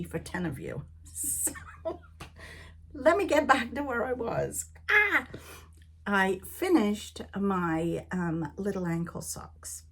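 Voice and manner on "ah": short, high, loud "ah!"; sudden exclamation. Real, not acted. Getting back to where she was, sudden loud cry. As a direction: burst out with a sharp high "ah".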